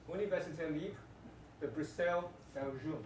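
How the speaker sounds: "Université Libre de Bruxelles" in mock French; hammed-up French reading of "Université Libre de Bruxelles"; fake French accent. Shown as a demonstration. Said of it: "that's my fake French".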